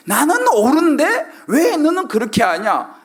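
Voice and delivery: high, drawn-out mock reproach; acted indignation. Preacher voicing the angry person's hidden thought, slow and indignant. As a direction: stretch out a self-righteous complaint. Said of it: "화가 자꾸 나".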